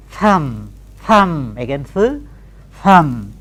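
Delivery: "thumb" without b; "thumb" spoken with b silent. Shown as a demonstration. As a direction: say "thumb", no final b. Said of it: "Now please say these words".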